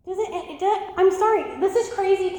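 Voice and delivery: giggling through the words; breaking up mid-sentence; laughing. Real, not acted. Preacher to congregation, cracking up laughing. Laughs at crazy Bible stories.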